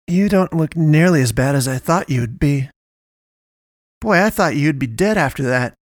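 astonished. Acted. Naomi to the injured girl, loud amazement. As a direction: marvel at her out loud.

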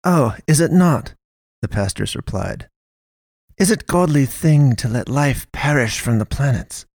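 high, rising challenge fading to doubt; challenging pastoress. A narrator's reading. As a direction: argue back, then falter. Pastoress counters then doubts.

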